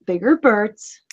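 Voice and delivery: mildly mocking repeat at ordinary pitch; mocking echo. Player echoing the raven's words back, mildly mocking. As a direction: echo it back with understated mockery. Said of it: "Are you mocking me?".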